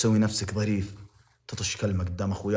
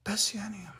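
whispered aside; 13 semitones higher, 7 dB quieter than usual. Real, not acted. Trailing off in a hushed aside.

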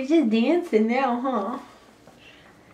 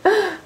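short pretend shriek; playful cry of fright; mock scream; 2 semitones higher than usual. Mother screaming as part of peekaboo game, mock scream. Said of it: "You scream when you move it".

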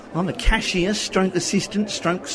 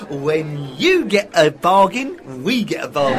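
rehearsed slogan; 4 semitones lower, 4 dB louder than usual. Acted. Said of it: "is that how it goes".

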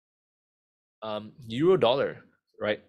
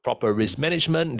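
loud anguished trader wail; a trader in panic, crying out as the price climbs; panicked trader; 4 dB louder than usual. Retold or imitated. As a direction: wail it like a trader watching the loss grow. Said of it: "They would be saying".

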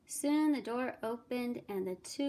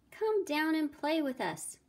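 higher storybook call; 6 semitones higher, 4 dB louder than usual. A narrator's reading. Little pig inviting his working brother to play, calling out. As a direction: call up playfully to a busy friend. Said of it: "he called".

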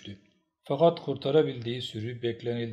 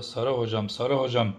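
excited call, building louder and higher; shouting; 4 semitones higher, 8 dB louder than usual. A narrator's reading. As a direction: call out urgent news. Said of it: "diye bağırdı".

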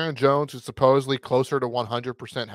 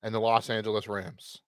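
unenthusiastic; 4 dB quieter than usual. Real, not acted. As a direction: introduce the matchup with little excitement. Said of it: "Don't sound so excited".

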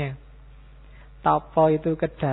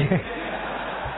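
laugh; 4 dB quieter than usual. Real, not acted. Laughs after joke.

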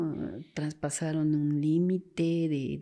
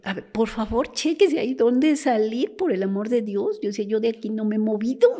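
louder, higher desperate plea; urgent pleading; 5 semitones higher, 6 dB louder than usual. Retold or imitated. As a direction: imitate a wife begging for help, insistent. Retold wife begs for help finding husband.

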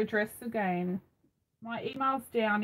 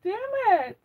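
mock frustrated curse, pitched up; retold annoyance; 11 semitones higher, 5 dB louder than usual. Retelling finding only a photo, mock pissed off. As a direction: act out being pissed off, lightly. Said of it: "I was so pissed off".

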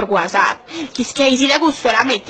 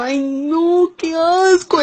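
high, squeaky "qué asco"; grossed-out woman squeals at her lover; disgusted squeal; 7 semitones higher, much slower than usual. Retold or imitated. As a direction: recoil in the voice. Reacting with disgust.

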